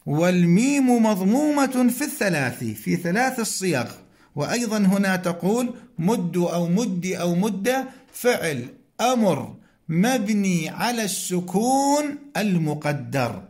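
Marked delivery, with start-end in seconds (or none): 6.0-7.9 "مد" as muddu, then muddi, then mudda; three vowel endings. Shown as a demonstration. Teacher parsing the imperative, "مد" with damma, kasra, then fatha. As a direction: end each "مد" differently: u, i, a. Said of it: "نفس هذه الأحكام تجري في الأمر".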